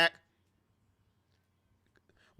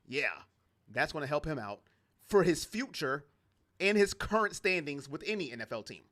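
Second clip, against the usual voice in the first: deadpan it under your breath; understated sarcastic aside; dry sarcasm; 4 semitones lower than usual. Real, not acted. Sarcastic mock agreement, muttered.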